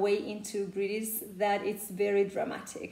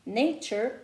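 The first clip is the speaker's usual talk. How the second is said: American "nature" with R-coloured final schwa; American accent; 3 semitones higher, 4 dB louder than usual. Shown as a demonstration. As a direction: close the last vowel of "nature" into an American R. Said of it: "instead of American accent will be".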